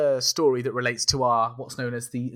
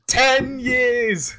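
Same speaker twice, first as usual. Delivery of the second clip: emphatic correction; 11 semitones higher, 5 dB louder than usual. Real, not acted. Correcting loudly.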